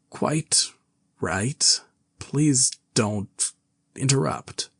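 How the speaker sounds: halting whisper, broken by jerks; jerky voice. Acted. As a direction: jerk the words out unevenly. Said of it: "curious jerking intonation".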